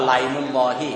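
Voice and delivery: "ไลมุลลอฮี" begun on a linked lai, no glottal catch; hamza dropped. Shown as a demonstration. Teacher proving the rule by Arab usage, hamza dropped. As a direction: glide through "ไลมุลลอฮี" without the hamza. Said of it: "ใส่ว่าไลนี่แสดงว่าฮัมซามันไม่มีแล้ว".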